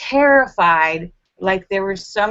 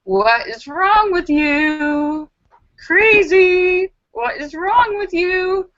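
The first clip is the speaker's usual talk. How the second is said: higher, exasperated scolding; scolding self-talk; 7 semitones higher, slower than usual. Retold or imitated. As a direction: mind scolding the scared body, exasperated. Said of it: "your mind is going".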